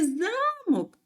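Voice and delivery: замок with a high, long за; stress on first syllable. Shown as a demonstration. Teacher showing the opposite word, first-syllable stress on замок. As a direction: lift and stretch за in замок. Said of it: "Перший склад за наголошений".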